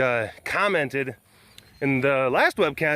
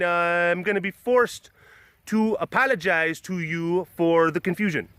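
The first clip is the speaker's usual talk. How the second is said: lightly put-on Canadian voice, slightly raised; mock Canadian accent; 3 semitones higher than usual. Canadian demanding he take it back, mock Canadian accent. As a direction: imitate a politely indignant Canadian. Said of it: "bunch of Canadians commenting on this video".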